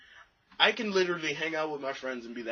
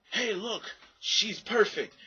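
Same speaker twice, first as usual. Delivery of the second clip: voice of God; 8 semitones higher, 4 dB louder, slower than usual. Retold or imitated. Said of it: "God will be like".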